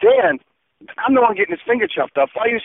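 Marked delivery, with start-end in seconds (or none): 0.0-0.4 startled call. Real, not acted. Reacting to Dan screaming.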